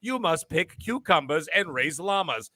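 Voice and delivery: lightly voiced, dull in-game dialogue; mock game text. Mocking the game's text to the co-hosts, lightly voiced. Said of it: "and then I'm reading the text".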